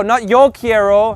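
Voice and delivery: yo leaned on, slowed; slow, stressed yo quiero. Shown as a demonstration. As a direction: hit yo to show it's the extra word. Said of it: "Just quiero".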